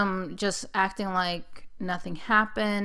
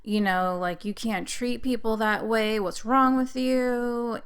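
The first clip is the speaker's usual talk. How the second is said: raised, angry reenacted yelling; reliving the fight with the husband, angry yelling; retold yelling at husband; 2 semitones higher than usual. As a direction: tell him off, voice climbing. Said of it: "I just started yelling".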